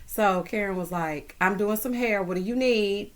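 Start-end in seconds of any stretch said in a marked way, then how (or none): 1.4-3.1 imitating southern twang with a touch of attitude; lightly mocked southern sass, at an everyday pace. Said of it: "She got an attitude in between her southern twang".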